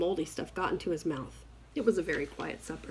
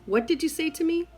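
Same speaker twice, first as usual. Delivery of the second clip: angry sister; 9 semitones higher, 3 dB louder than usual. Retold or imitated. Sister angrily confronts.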